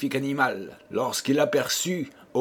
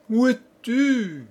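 much higher, slow, worried calling out; anxious call; 11 semitones higher, 4 dB louder, slower than usual. Acted. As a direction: call out slowly, searching and worried. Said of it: "s'écria-t-il tout inquiet".

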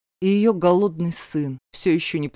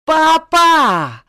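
much higher, loud drawn-out calling; yelling through the house; 10 semitones higher, 9 dB louder, much slower than usual. Acted. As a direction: scream for daddy across the house. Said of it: "заорала на весь дом".

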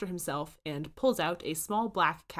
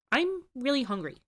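put-on higher hungry kid; eager Dipper; 8 semitones higher than usual. A narrator's reading. Dipper wants the chef's food, higher eager. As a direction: say it bright and eager.

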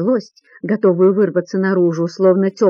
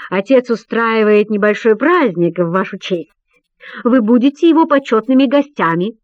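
solemn announcement; 2 semitones higher than usual. Acted. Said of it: "торжественно объявляет Мракос".

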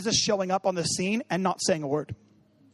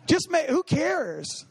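laughing; 7 semitones higher, much slower than usual. Real, not acted. Laughing at own joke.

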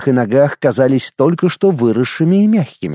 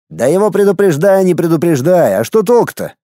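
higher, exasperated outburst; annoyed, raised-pitch retort; irritated; 5 semitones higher than usual. A narrator's reading. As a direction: wave it off with irritation. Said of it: "раздражённо махнул рукой".

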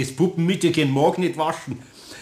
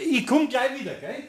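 much higher, hurried and pleased; eager; 10 semitones higher, 4 dB quieter than usual. Acted. Meister Eder tells Frau Schröder he'll be right back, eager. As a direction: rush off, delighted it worked. Relieved, rushing off to measure.

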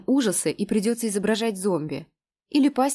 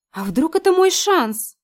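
dreamy hope; 10 semitones higher, 8 dB louder, slower than usual. A narrator's reading. Lena dreams aloud.

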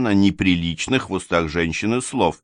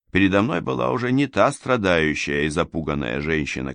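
usual speaking voice

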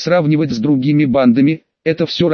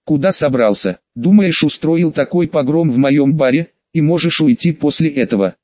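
ordinary delivery, nothing marked

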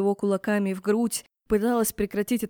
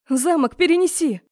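louder, higher hurried spell; urgent command; 7 semitones higher, 6 dB louder than usual. A narrator's reading. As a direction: blurts out the spell to escape. Heroine casts spell urgently. (громко и выше)

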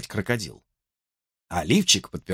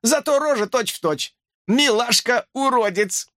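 high, slow squeaky mockery; hamster teasing; 11 semitones higher than usual. A narrator's reading. Hamster keeps mocking Ben, high and slow. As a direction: drag out the insult gleefully.

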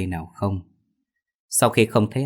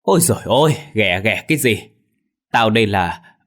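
indignant yelp; 5 dB louder than usual. Acted. Minh snaps back at being called.

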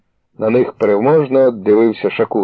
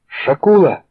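higher cry of his name; alarmed cry; shout; 8 semitones higher than usual. A narrator's reading. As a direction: call out in alarm. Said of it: "крикнула Клава".

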